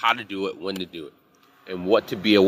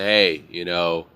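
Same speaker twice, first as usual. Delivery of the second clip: nice respectful tone; 4 semitones lower than usual. Retold or imitated. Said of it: "in my nice, respectful tone".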